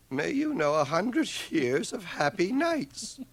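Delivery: reading while breaking into laughter; laughing through it. Real, not acted. The speaker reads the note to Liesl, laughing.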